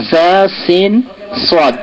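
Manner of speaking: "জা", "সিন", "সদ" আলাদা আলাদা করে আরবি মাখরাজে; জিভের ডগা মিলিয়ে "জা", "সিন", "সদ"; আরবি উচ্চারণ দেখানো. Shown as a demonstration. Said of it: "সদের উচ্চারণ". (প্রতিটি অক্ষর থেমে থেমে আরবি ধ্বনিতে)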